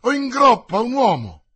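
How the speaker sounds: high, loud alarmed cry; yell. Acted. Planchet yells to his master, high and loud in alarm. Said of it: "urlò Planchet".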